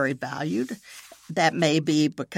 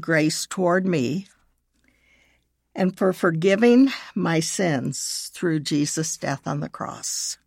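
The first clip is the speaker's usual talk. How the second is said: measured, with long pauses between phrases; slow prayer reading. Shown as a demonstration. Leading listeners in a prayer of forgiveness, slowly. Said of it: "I will read it slowly".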